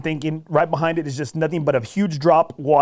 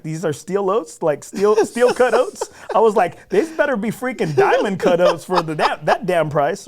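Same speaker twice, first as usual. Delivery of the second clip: higher and louder, mock outrage at pricey oatmeal; outraged at the price; 5 semitones higher, 4 dB louder than usual. Telling a friend about overpriced oatmeal, mock outraged. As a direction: scoff at the price of fancy oats.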